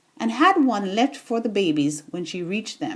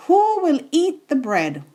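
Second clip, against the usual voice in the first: calling out; 5 semitones higher than usual. Acted. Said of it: "the red hen called".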